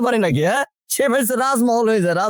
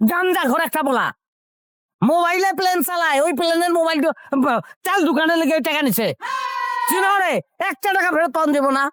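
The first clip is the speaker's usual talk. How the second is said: raised-pitch, indignant rant; angry scolding; 4 semitones higher than usual. Acted. Husband berates wife for giving away his hard-earned money, angrily. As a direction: berate her in a heated rush.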